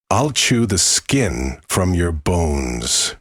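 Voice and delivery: slow, gravelly horror-movie voice; gravelly monster voice. Acted. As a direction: drag each word out like a demon. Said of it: "It was much lower and gravelly".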